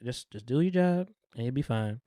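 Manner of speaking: soft retold reassurance; understated calm, voice dropped. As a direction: tell them quietly, imitating a composed gunman. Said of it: "Frank is just so calm with the gun".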